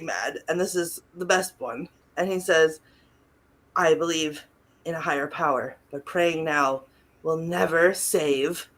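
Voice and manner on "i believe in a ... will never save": building to a shout. Retold or imitated. Quoting the furious priest to friends, building from low murmur to loud shout. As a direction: ham it up like a B-movie priest.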